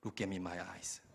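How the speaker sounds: low, soft, grave appeal; mock-solemn, hushed earnestness; heartfelt plea. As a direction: speak sincerely, as if it is the last resort. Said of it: "내가 진심을 담아서".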